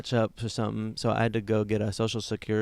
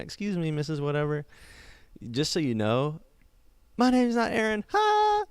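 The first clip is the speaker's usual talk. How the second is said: mock prankster reveal; 6 semitones higher than usual. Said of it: "I went".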